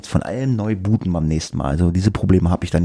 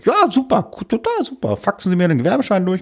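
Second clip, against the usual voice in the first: high, bubbly customer service voice; chirpy service agent; 12 semitones higher than usual. Retold or imitated. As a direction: gush like an overeager agent. Retold agent cheerfully agreeing. (hohe, übertrieben freundliche Servicestimme)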